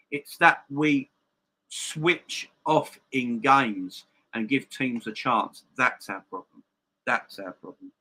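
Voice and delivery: talking with a missing tooth; lisping through a tooth gap. Real, not acted. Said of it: "sorry about the missing tooth".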